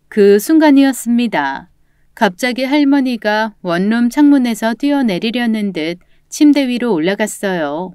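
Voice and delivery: ordinary delivery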